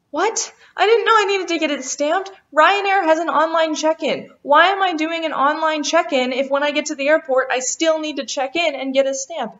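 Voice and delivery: high, indignant disbelief that climbs into a rant; shocked disbelief. Retold or imitated. Telling viewers about the unexpected stamp, high and outraged.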